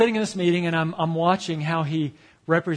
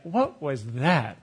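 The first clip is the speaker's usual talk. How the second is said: baffled mock reaction; 2 semitones lower, much slower than usual. Board members' blank stare.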